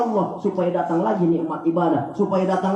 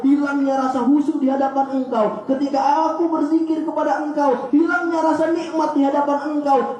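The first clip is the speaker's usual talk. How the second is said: higher, raised voice begging forgiveness; pleading prayer; 4 semitones higher than usual. Pretend. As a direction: cry out to God, half acted. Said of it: "Terus kita nangis di hadapan Allah". (doa memohon ampun dengan suara tinggi)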